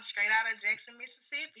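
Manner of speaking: natural Southern Mississippi accent. Real, not acted. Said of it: "y'all hear that accent".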